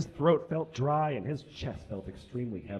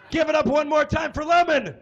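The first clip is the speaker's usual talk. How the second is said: loud; 12 semitones higher, 6 dB louder than usual. Real, not acted. Host calling for applause.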